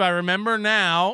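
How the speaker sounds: normal talking voice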